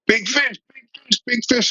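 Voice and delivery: imitating an excited guide's high-pitched yell; mock scream. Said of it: "My guide's now screaming".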